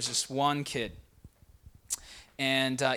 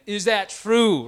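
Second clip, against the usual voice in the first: loud, slow, drawn-out demand, imitating a big dad; booming dad voice; 6 semitones higher, 9 dB louder, much slower than usual. Dad looks at his son again, imitated booming voice. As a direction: boom it out higher and slower, like an angry father. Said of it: "booming voice".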